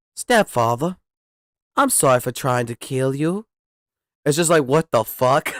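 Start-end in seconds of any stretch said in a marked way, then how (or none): 0.2-3.5 child's put-on British accent. Retelling a stepson's apology to him: imitating stepson's British accent. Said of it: "this British accent going on with him".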